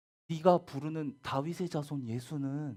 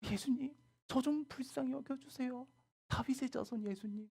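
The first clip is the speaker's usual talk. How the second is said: humble pleading; 11 semitones higher, 4 dB quieter than usual. Acted. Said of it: "예수님한테 절하면서".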